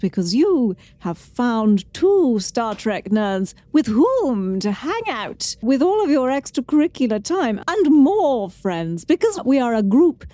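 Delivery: lilting TV chef delivery; Julia Child voice. Pretend. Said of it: "what accent or style should I do it in".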